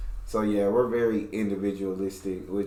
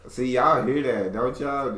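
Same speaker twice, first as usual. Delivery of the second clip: higher, lightly mocked country accent; mocking country accent; 4 semitones higher, 4 dB louder than usual. Teasing partner to the viewers, mock country accent. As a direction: tease with a bit of her country accent. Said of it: "when I start mocking her accent".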